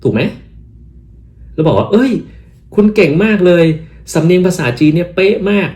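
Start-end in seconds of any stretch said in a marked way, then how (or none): 1.9-5.7 high, exaggerated amazement; effusive praise. Telling the greeter their Chinese is spot on, high and impressed. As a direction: gush with mock admiration. Thai version of acted praise.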